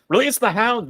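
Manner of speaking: high-pitched mock battle order; mock command. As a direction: call it out like an order to attack. Quotes the comic's order.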